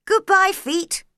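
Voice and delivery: high, loud call down to her feet; calling goodbye to her faraway feet, high and loud. Acted. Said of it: "she called".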